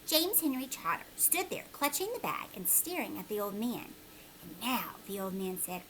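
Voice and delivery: storytime narration voice; reading a chapter aloud to a class; story narration. A narrator's reading. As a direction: read it to the children, steady and clear. Story narration read to children.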